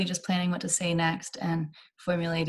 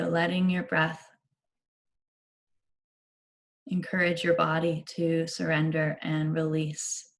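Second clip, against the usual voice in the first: unhurried meditation guide with long pauses; measured, spacious meditation delivery; guided meditation. Real, not acted. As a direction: ease them gently into relaxation, leaving space between phrases.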